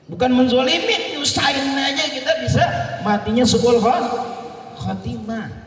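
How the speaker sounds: preaching emphasis. Real, not acted. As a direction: press the warning home. Preacher raising warning.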